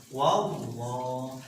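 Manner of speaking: Wallah dibaca tebal, lam ditekan; tebal dengan tasydid. Shown as a demonstration. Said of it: "Karena ada tasdidnya". (Wallah dibaca tebal dan ditekan)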